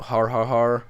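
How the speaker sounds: a deliberate, spoken har har har; mock laugh. Gamer mocking his own trash pun with a fake laugh.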